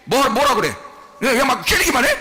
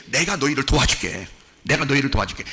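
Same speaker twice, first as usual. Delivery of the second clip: lower, gentle promise of help; God's calm, lower-voiced promise; reassuring; 7 semitones lower than usual. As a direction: reassure them as a caring God would. Voicing God promising help.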